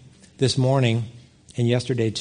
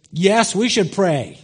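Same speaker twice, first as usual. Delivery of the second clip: grudging agreement; 4 semitones higher, slower than usual. Retold or imitated. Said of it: "I said".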